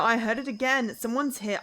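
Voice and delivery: loud panicked cry; frightened, loud. Acted. Frightened in the dark.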